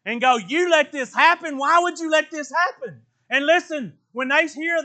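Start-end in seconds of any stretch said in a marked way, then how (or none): 0.4-3.0 accusing. Retold or imitated. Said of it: "point his finger and go".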